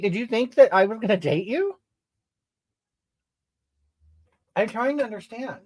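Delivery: talking through a mouthful; eating while talking; mouth full. Real, not acted. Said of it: "Please don't talk with your mouth full".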